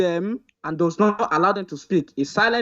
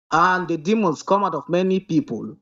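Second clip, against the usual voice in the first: slower reading. Real, not acted. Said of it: "Don't, don't speak fast".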